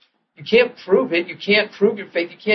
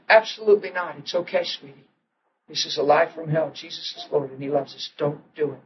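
calm reassurance; 6 dB quieter than usual. Retold or imitated. Husband calmly reassures frantic wife.

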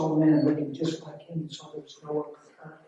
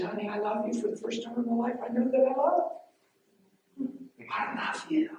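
high, choked-up imitation of a loving husband; retold tearful declaration; 9 semitones higher, 3 dB quieter than usual. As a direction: strain the love declaration up into a high voice.

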